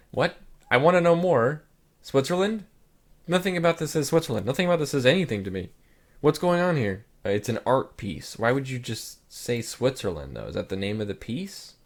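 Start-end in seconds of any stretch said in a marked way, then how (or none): 0.1-7.0 high-pitched, incredulous protest; rising disbelief, tumbling faster as it goes; baffled demand. Real, not acted. Vlogger puzzled by a Switzerland caption, in high baffled protest.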